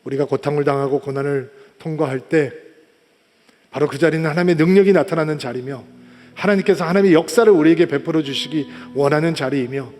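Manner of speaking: low, solemn prayer voice; closing prayer. Real, not acted. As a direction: lead the congregation in low-pitched prayer.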